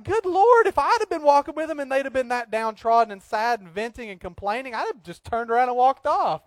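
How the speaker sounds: high, incredulous outburst; mock exasperation. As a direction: react as if you'd lose patience. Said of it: "I'm like".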